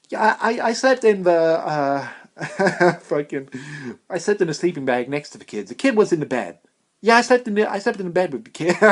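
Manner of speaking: high, loud falsetto, giggly; a breathy pop-star falsetto confession; a famous singer's voice. Pretend. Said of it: "I'm gonna be Michael Jackson rich".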